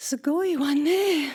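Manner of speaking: high-pitched, polite feminine speaking style. Explaining how a woman must say it in japanese, in a high-pitched voice.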